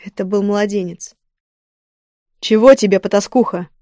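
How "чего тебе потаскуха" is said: cold, contemptuous, louder start; icy tone. Acted. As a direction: freeze her out with disdain. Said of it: "ледяным тоном поинтересовался я".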